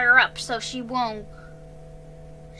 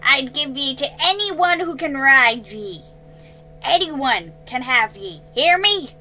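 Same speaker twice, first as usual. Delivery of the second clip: loud, higher angry rant; furious shout; 4 semitones higher, 10 dB louder than usual. A narrator's reading. Man ranting at horse from the dirt, furious. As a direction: let the rage spill out.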